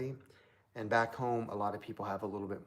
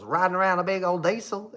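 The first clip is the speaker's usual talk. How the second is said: put-on redneck country accent; 9 semitones higher, 11 dB louder than usual. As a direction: mimic a small-town country girl yelling from a truck. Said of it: "now she sounds completely redneck".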